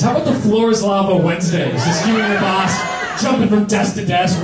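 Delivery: selling floor is lava Wednesdays; excited shout. Real, not acted. Shouting the proposal.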